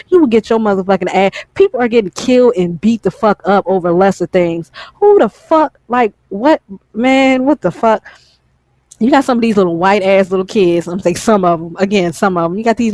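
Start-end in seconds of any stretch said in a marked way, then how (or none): 4.9-8.0 outraged. Real, not acted. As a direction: blurt it out in high outrage. Outraged at kids joking.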